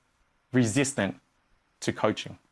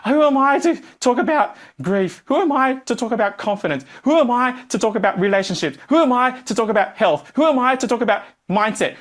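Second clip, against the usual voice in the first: self-doubt; 6 semitones higher than usual. Retold or imitated. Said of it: "you freeze".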